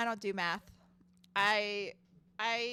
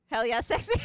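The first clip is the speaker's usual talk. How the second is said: laughing; 6 dB louder than usual. Real, not acted. Jokes about stressing live.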